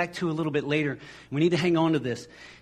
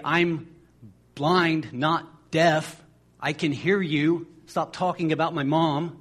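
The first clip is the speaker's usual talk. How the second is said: indignant retort; 3 dB louder, slower than usual. Retold or imitated. Blind man retorts to disciples.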